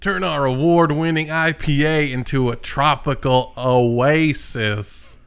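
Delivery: put-on Hawaiian accent. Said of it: "Nick with a Hawaiian accent".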